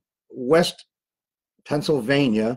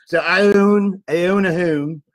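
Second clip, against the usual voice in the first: South Philly accent; 6 semitones higher, 5 dB louder, slower than usual. Shown as a demonstration. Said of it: "get my South Philly accent on".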